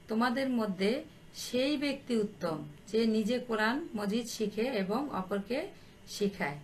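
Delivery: drawn-out phrase endings, pausing before the last word; slow dictation. Real, not acted. Teacher dictating the Prophet's saying to pupils, slowly. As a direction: dictate the quotation unhurriedly. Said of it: "আমি আস্তে আস্তে বলছি".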